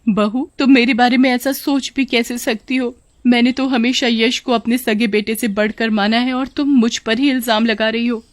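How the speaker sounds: protesting mother-in-law, indignant; wronged mother-in-law. Acted. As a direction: confront the daughter-in-law, sounding hurt. (बहू पर बिगड़ती सास)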